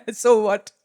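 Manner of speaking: said between chuckles, at full voice; amused laughing repeat. Real, not acted. Teacher offering English version of the mantra, amused. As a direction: toss it out while laughing.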